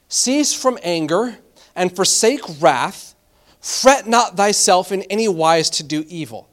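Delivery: slow, measured reading of a Bible verse; slow solemn scripture reading. Acted. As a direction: let each phrase land slowly. Reads verse eight aloud.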